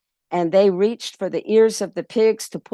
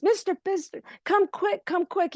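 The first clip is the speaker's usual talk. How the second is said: urgent calling out; 12 semitones higher, 4 dB quieter than usual. Acted. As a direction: shout for the boss in a panic. Pedro urging boss to come.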